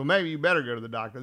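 quick, a mild edge of impatience; a wife tired of his crankiness. Retold or imitated. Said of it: "a little less worried about him and a little more. I don't want to crank in the house".

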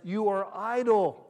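loud, slow accusing "idle"; stern accusation. Acted. Pharaoh scolding the Hebrews, loud and stern. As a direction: accuse them of laziness.

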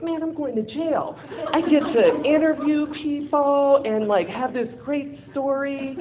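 high, bubbling thrill at the news; giddy retold excitement; excited. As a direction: gush about the jail adventure. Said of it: "I'm all excited".

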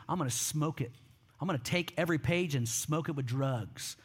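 low, lightly voiced drug lord; understated menace in a quoted reply; retold cool threat.

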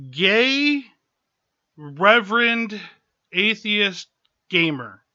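gay, reverend, atheist gamer, each word set apart; dramatic pauses. Acted. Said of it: "I'll let that sink in".

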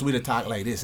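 easygoing Saint Thomas island speech; Saint Thomas accent. Shown as a demonstration. Islander explaining how home sounds, Saint Thomas accent. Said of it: "Saint Thomas".

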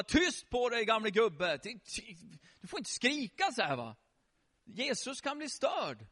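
scolding disciples. Acted. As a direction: hush an old man indignantly. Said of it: "sa lärjungarna".

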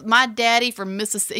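mock bad Southern accent; a put-on Southern twang, poorly done; Alec Baldwin's Southern accent. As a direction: imitate an actor's shaky Mississippi accent. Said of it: "Alec Baldwin's shitty accent".

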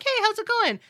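fake cheerful greeting.

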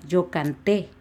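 "canté" stressed on the last syllable; teacher's demo of "canté", final é accented. Shown as a demonstration. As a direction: land on the -té of "canté". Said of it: "y acento en la E".

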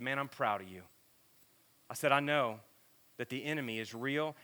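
low, soft encouragement; quiet, heartfelt retold pep talk; retold reassurance. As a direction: speak low and sincerely, as to a struggling friend. Retells encouraging a struggling friend.

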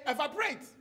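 "evaporate" said in a Ghanaian accent, full vowels; Ghanaian pronunciation. Shown as a demonstration. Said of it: "We pronounce shit differently".

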